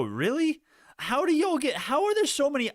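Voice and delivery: high, loud disbelief; shocked and incredulous; surprised. Real, not acted. Shocked by margin calls.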